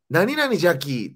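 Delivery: high, drawn-out Kochi dialect ending. Shown as a demonstration. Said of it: "四国がめっちゃいいのよ".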